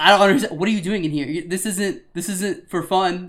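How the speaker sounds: loud, exasperated outburst at a clueless customer; incredulous angry rant. Retold or imitated. Coworker recounting the sick customer, loud exasperated rant.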